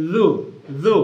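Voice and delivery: লু said as careful "dhu", tongue at the teeth; careful pronunciation. Shown as a demonstration. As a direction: place the tongue tip precisely for লু. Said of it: "উচ্চারণের সতর্কতা কোথায়".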